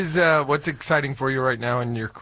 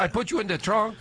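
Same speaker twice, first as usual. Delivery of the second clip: put-on Middle Eastern accent; 10 semitones higher than usual. Comedian imitating his Uber driver in a high Middle Eastern accent. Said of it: "I'm trying to do an accent".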